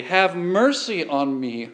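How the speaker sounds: understated mother's cry for help; mild pleading cry. Retold or imitated. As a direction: beg for your daughter, lightly voiced. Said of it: "a Canaanite woman cries similarly".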